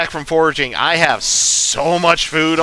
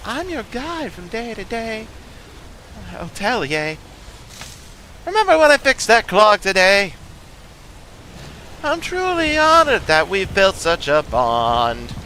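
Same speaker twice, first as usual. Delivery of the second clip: put-on a fond old mentor talking to a child; sing-song lead-in as a fond guide; character voice lead-in; 2 semitones higher than usual. Shown as a demonstration. Warming up for a character voice by reciting a fond guide's rhyme. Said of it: "I can't do the voices properly until I do, like, a lead-in".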